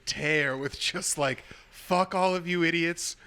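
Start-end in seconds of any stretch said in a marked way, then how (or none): 1.7-3.2 climbing higher and higher into a giddy cheer; hammed-up chant, rising to a high squeal; mock hype. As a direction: ham it up like a fan cheering on a team. Mocking pro-Israel posts.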